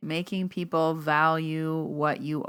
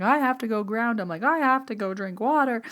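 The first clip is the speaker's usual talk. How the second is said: rushed goodbye; 6 semitones higher than usual. Retold or imitated. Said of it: "He's like".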